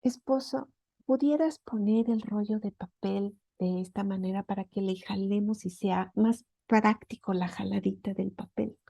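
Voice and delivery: a gentle, kind request to the husband; said with love. Shown as a demonstration. Wife asks husband about the toilet roll, lovingly. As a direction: ask sweetly, no reproach. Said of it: "se puede decir con amor".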